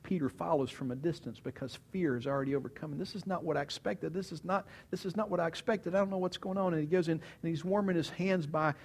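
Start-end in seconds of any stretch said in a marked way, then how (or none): 3.0-6.7 higher, softer, repetitive worry; anxious muttering. Acted. Peter following from a distance overcome by fear, anxious. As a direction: fret to yourself, pitched up. Peter's fearful inner thoughts.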